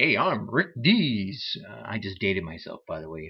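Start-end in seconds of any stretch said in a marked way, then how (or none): 0.0-1.6 loud, drawn-out, slow radio announcer voice. Describing podcasters who take on an announcer voice, in a Rick Dees radio voice. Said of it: "Kind of a voice about it".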